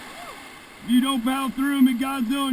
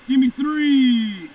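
loud, slow, drawn-out call; shouted command; 5 dB louder, much slower than usual. Real, not acted. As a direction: call the stroke over the river noise. Rafting guide calling paddle strokes.

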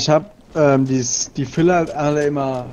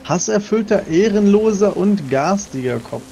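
mock dramatic insult; 3 semitones higher, slower than usual.

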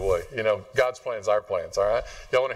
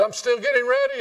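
put-on little boy answering; 12 semitones higher, 3 dB louder than usual. Child answers mom in story.

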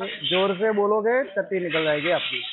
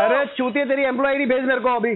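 real heated, higher-pitched challenge; angry demand; 3 semitones higher than usual. Real, not acted. Debtor demanding collector's employee ID, angry. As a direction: demand it as a dare.

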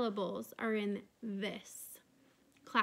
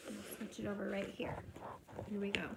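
whisper; 3 semitones lower, 9 dB quieter, faster than usual. Real, not acted. Aside while turning the page.

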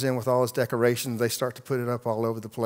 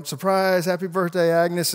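mock group yell; 5 semitones higher than usual. Crowd greeting Agnes at her party, cheering. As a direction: call out the surprise cheerfully. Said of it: "They all yell".

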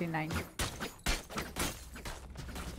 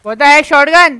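surprised outburst; 5 semitones higher, 15 dB louder, much slower than usual. Real, not acted. Killed by a shotgun.

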